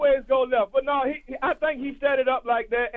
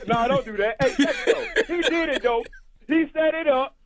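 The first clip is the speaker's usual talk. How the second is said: chewing gum; 2 semitones higher than usual. Real, not acted. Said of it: "I got some gum in my mouth".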